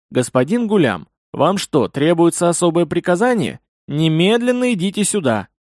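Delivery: sharp furious order, rising at the end; commanding anger. Acted. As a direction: demand he come at once. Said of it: "Взор неистовой Зайри".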